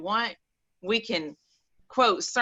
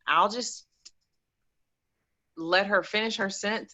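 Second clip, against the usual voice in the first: normal talking voice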